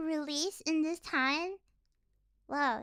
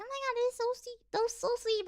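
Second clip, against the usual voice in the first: gushing; 6 semitones higher, 3 dB quieter, faster than usual. Retold or imitated. Recalling own reaction to watching anime, gushing. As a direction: relive being charmed, pitch lifted.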